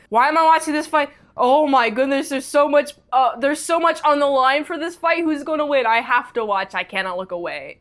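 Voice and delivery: gripped fight-watcher, rushing in at the start; on edge, riveted. Retold or imitated. Fan talking to self about a tense fight, riveted. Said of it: "I'm, like, on the edge of my seat".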